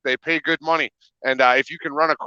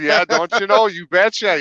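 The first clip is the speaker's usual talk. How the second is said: hammed-up Minnesota accent, higher; 6 semitones higher, 3 dB louder than usual. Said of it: "a Minnesota boy like me".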